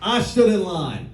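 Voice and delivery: put-on mother's Indian accent, slow and emphatic; lightly voiced Indian accent, measured and insistent. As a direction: imitate a fired-up Indian mom, drawn out slowly. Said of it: "in her very thick in-, Indian accent".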